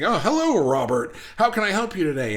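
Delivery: bright customer-service greeting; mock cheerful service voice; polite clerk. Clerk greeting a customer by his full name, mock polite. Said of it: "it's like".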